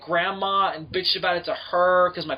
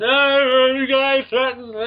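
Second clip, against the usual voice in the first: mocking mom; 8 semitones higher, 8 dB louder, slower than usual. Mimics mom's reaction.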